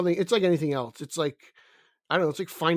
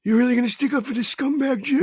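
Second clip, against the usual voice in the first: louder, higher indignant cry; hammed-up betrayal; mock outrage; 8 semitones higher, 5 dB louder than usual. Friend cries out at Jim in mock betrayal.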